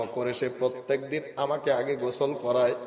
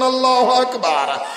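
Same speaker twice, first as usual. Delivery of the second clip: high, loud rallying cry; shouted takbir; 11 semitones higher, 8 dB louder than usual. Real, not acted. Preacher urging the congregation to shout, high cry. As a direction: shout the praise out to the whole crowd. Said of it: "চিৎকার করে বলুন".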